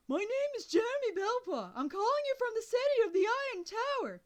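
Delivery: loud, high yell; boy yelling his name to a deaf old man. A narrator's reading. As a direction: shout every word down the line. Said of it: "no need to yell quite that loud".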